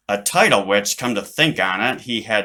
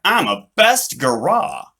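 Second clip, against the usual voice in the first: proud; 5 semitones higher, 5 dB louder, slower than usual. Acted. Boy proudly to himself.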